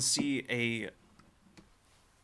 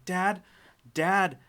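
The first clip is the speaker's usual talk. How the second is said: frantic, louder, higher cries for his dad; panicked calling; 8 semitones higher, 7 dB louder than usual. Acted. Boy lost in a jungle panics, calling for his dad, frantic shout. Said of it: "he starts turning and panicking".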